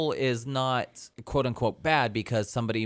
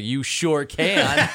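slow, loud, gleeful; eager yes; 4 semitones higher, 5 dB louder, much slower than usual. Retold or imitated. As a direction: savour the yes with a laugh. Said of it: "I was like".

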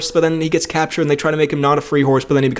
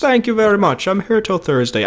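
toy Shrek voice; 6 semitones higher than usual. Retold or imitated. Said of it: "he was like".

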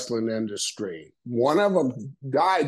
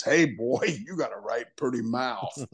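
lightly voiced menacing backwoodsman; a hint of a leering hillbilly, laughing. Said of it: "one of the two guys in the woods with Ned Beatty that says".

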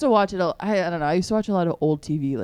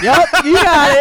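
switching impression voices; 6 semitones higher, 9 dB louder than usual. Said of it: "And I was like".

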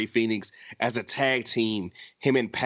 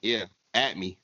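A rapper's voice; 6 semitones lower, slower than usual. Shown as a demonstration. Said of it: "Playboy Cardi voice".

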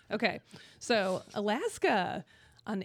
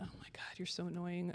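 whispered aside; 2 semitones lower, 10 dB quieter than usual. Real, not acted.

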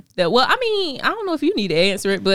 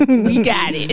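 mock exasperated; slower than usual. Real, not acted. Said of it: "we have heard that he's cute".

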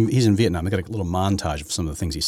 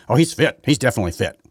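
mock TV host; 5 semitones higher, 5 dB louder than usual. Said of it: "come out on The View and say".

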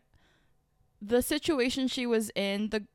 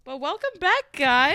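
higher Aussie host voice; Australian accent; 5 semitones higher, 8 dB louder, slower than usual. Acted. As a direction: welcome them back Aussie style. Return to show voice.

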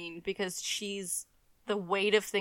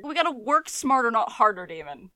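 Damon voice; 4 semitones higher, 8 dB louder than usual. Retold or imitated. Voicing Damon's motto.

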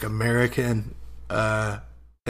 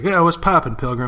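higher, louder cowboy greeting; quick mock cowboy hello; John Wayne; 4 semitones higher, 4 dB louder than usual. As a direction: lightly play a cowboy hailing a stranger. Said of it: "he walks into a new town and he's like".

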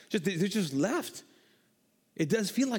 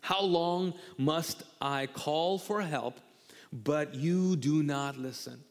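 a slow, drawn-out plea to God, much slower than his normal speech; slow pleading lament; slower than usual. Retold or imitated. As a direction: plead slowly, stretching the words like a prophet crying out. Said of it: "He says".

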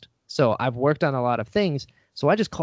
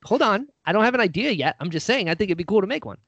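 flustered backpedaling; 7 semitones higher, faster than usual. Retold or imitated. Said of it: "And I'm like".

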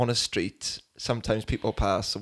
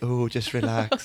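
soothing therapist; slower than usual. Retold or imitated. Mimicking soothing massage therapist.

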